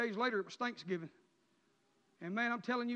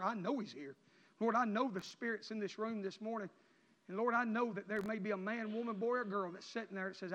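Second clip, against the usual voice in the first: closing prayer. Real, not acted. Closing prayer over the church.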